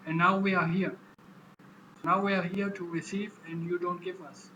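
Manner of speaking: demanding protest. Retold or imitated. Migrants demanding what was promised.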